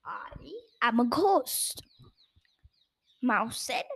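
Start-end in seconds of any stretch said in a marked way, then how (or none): 0.1-1.8 frightening ghost voice. Acted. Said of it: "in his most frightening voice".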